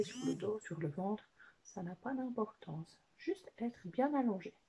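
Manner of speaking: lightly voiced puppet with swooping pitch; Watson. Watson advises children how to lie down, lightly put-on puppet voice. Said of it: "que tu recommandes, Watson?".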